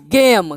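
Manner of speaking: गेम with a long "ay", silent final E; pronunciation demo. Shown as a demonstration. Teacher showing the A sound, गेम said "gaym". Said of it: "इसका उच्चारण ए हो जाएगा".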